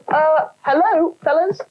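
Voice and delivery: high, slow squeak; squeaky. Acted. Gopher greeting an empty room, high squeak. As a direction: squeak out a timid hello. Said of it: "squeaked Gordon".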